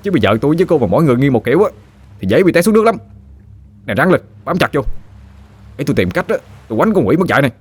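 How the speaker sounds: a put-out lad lecturing her; exasperated. A narrator's reading. Chớt explains the physics to Phương, rushed and exasperated. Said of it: "Thằng Chớt tặc lưỡi nói".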